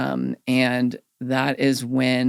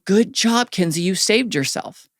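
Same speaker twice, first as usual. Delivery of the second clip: praising instructor; 5 semitones higher than usual. Retold or imitated. Swim instructor praises a toddler who reached the side, higher and bright. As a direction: cheer her on for saving herself. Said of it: "and they say".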